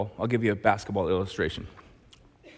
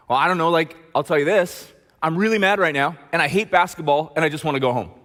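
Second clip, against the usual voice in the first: put-on louder, heated teen venting; mad player; 4 semitones higher, 5 dB louder than usual. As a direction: vent like a fed-up player. Angry player vents to coach.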